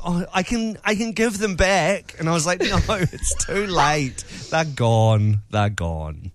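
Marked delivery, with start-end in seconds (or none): 0.1-2.2 higher-pitched, imitated sheepish offer; mock sheepishness, offering awkwardly; sheepish coworkers. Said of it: "to get sheepish". 2.6-6.3 slow, drawn-out refusal sinking low; mock finality. Acted refusal to sheepish coworkers.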